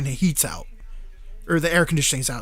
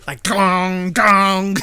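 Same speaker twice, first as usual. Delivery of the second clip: mock gong clangs, louder; gong sound effects; 4 dB louder, much slower than usual. Narrator imitating the guitar-fight sounds, mock gong clangs. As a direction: ring out like cartoon guitar hits. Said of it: "bling sound effects".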